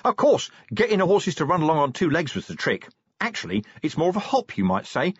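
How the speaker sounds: high-pitched, chatty driver voice; enthusiastic coachman. A narrator's reading. Coachman explaining his trick to Vimes, enthusiastic. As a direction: carry on boasting about tricks.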